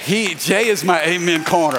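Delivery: loud joyful preacher shout; excited shout. Real, not acted. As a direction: call it out to the whole church. Pastor hyping his amen corner.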